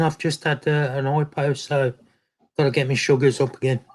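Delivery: chewing while talking. Real, not acted. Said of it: "You have to excuse me eating".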